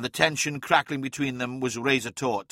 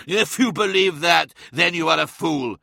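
scornful retort; 4 semitones higher, 7 dB louder than usual. A narrator's reading. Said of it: "Magnus's turn to laugh".

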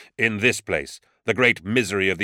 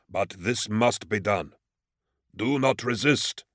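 intoning; slower than usual. A narrator's reading. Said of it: "intoned Hakim".

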